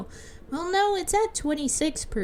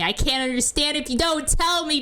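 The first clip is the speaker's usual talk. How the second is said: earnest plea, slightly raised; pleading; 4 semitones higher, faster than usual. Acted. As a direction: ask to be told, pressing gently. Pleading line, then repeated higher.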